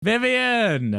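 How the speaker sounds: high shouted name; Lazy Madman scream. Retold or imitated. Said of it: "the Lazy Madman, you know, scream".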